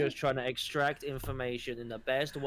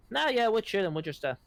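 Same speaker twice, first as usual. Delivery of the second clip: breezy normal voice; 3 semitones higher, faster than usual. Acted. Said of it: "transform into his normal voice".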